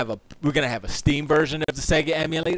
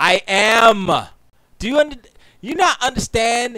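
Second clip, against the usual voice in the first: full-on loud yelling, rising and high-pitched; 7 semitones higher, 6 dB louder than usual. Answering another speaker's jab: yelling. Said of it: "I'm yelling".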